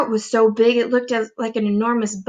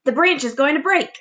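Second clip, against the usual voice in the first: alarmed aunt; 6 semitones higher than usual. Acted.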